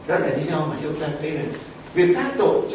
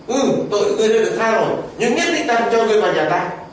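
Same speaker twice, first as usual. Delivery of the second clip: louder, laughing mock verdict; amused God voice; 3 semitones higher, 4 dB louder than usual. God at heaven's gate turning the man's words on him, laughing. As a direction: deliver God's twist with a chuckle. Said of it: "Chúa cũng nói là".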